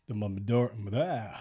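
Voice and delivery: talking round a lozenge; mouth full. Real, not acted. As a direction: cough drop in mouth. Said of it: "Tongue twister".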